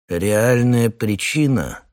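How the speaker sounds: slow, dreamy musing; dreamily. Acted. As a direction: savour the words slowly. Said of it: "полковник мечтательно".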